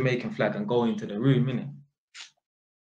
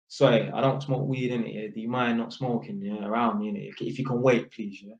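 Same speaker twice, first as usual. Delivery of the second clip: low, softening polite ask; courteous, low-key request; 4 semitones lower than usual. Retold or imitated. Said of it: "Man's polite with it".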